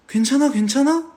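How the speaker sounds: high, loud alarmed "괜찮아?"; worried check-in. Retold or imitated. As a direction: rush in asking if she's okay. Comforting crying child. (놀라서 다급하게 묻는 목소리)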